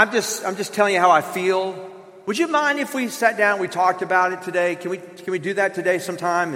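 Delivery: gentle and tentative, sharing feelings; calm, careful and non-accusing; husband gently opening up to his wife; soft opening up. Shown as a demonstration. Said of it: "I should come to my wife and I should say this".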